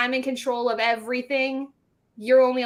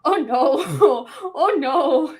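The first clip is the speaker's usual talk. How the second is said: laughing; 2 semitones higher, 6 dB louder, much slower than usual. Retold or imitated. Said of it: "I was like".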